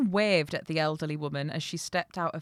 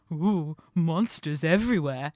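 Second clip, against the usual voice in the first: louder, lightly put-on spooked voice; mild mock shiver; 7 dB louder than usual. A narrator's reading. Young chuckling to himself in haunted woods, mild mock shiver. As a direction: play a light, chuckling fright. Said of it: "He chuckled as his teeth clattered together".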